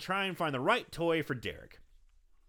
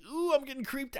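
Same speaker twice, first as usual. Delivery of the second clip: creeped-out squeal; 12 semitones higher than usual. Retold or imitated. Viewer's squirming reaction acted out.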